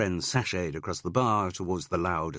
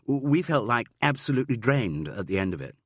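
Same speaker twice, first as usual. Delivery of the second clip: lightly voiced gushing student, higher and louder; breathless drama student; 5 semitones higher, 4 dB louder than usual. Student tells Jude about the show, gushing. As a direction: gush like a drained young actor.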